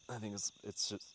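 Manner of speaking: hiccuping mid-sentence; with hiccups. Real, not acted. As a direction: talk through hiccups. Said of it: "I got hiccups".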